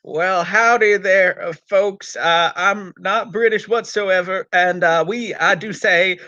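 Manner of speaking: hammed-up bad American accent; Peter Purves. Host introducing a gunfighters episode in a put-on cowboy American accent. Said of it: "as Peter Purves doing an American accent".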